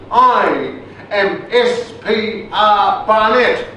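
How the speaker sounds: slow, high, grand posh English announcement; toffee voice. Retold or imitated. Soldier announcing his rank to MPs in a slow posh English accent. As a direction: announce yourself like English nobility. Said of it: "he puts on this voice".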